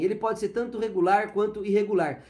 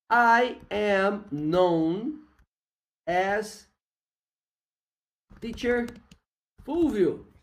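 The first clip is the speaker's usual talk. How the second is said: slow demo; much slower than usual. Shown as a demonstration. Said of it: "Quando você for dizer".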